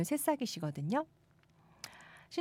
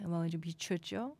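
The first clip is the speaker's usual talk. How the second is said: ordinary delivery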